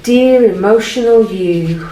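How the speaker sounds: mock-sweet, talking down; sarcastic patronising. Shown as a demonstration. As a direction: say it as if patronising someone. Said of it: "Can you hear the tone in my voice?".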